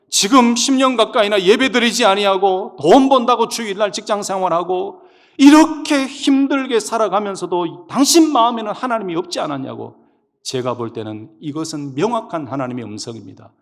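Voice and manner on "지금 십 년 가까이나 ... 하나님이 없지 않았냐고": loud, high admonishing pulpit voice; full-force preaching. Retold or imitated. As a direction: drive the reproach home forcefully. Retells own admonition in preaching.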